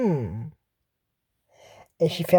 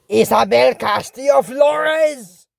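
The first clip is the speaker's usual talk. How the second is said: slow, drawn-out scolding of a full name; a mock-stern parent spelling out each name; 5 semitones higher, 4 dB louder, slower than usual. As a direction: call her out by all three names, slowly. Parent full-naming daughter in trouble.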